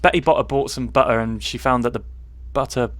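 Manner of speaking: Cornish accent on "Betty Botter bought some butter"; own Cornish accent. Shown as a demonstration. Showing how it sounds at home, Cornish accent. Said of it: "if I did it in my accent".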